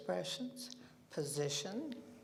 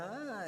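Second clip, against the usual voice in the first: delighted ah; 5 semitones higher than usual. Shown as a demonstration. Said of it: "if it's a wonderful thing".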